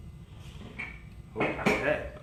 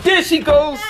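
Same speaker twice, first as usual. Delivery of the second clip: delighted laugh; 14 semitones higher, slower than usual. Real, not acted. Baby toddles in, delighted.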